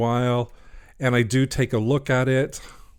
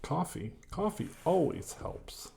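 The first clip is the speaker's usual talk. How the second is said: soft unvoiced whisper; whispered aside; 6 semitones higher, 12 dB quieter than usual. Real, not acted. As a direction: whisper it to yourself. Aside about coffee.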